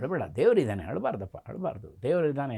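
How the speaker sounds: hushed, tender reassurance from a guru; gentle consoling. Retold or imitated. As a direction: softly soothe a crying child. Guru consoles a crying child. (ಮೃದುವಾಗಿ ಸಮಾಧಾನಪಡಿಸುವ ಧ್ವನಿ)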